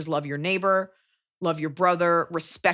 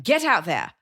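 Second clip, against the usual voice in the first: put-on Australian accent; slower than usual. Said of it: "I've been doing Australian".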